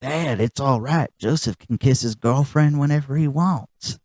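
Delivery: calmly explaining it away; Bobby Hill. Retold or imitated.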